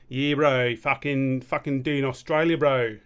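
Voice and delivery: a clumsy try at Australian, bro; bad Australian accent. Shown as a demonstration. Trying out Australian for viewers, bad Australian accent. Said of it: "I'm gonna do fucking Australian".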